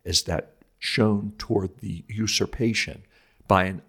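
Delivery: put-on measured, solemn reading of an old sermon. Host reads Augustine's Holy Week lecture to listeners, solemn and measured. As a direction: read it like a lecture from the pulpit.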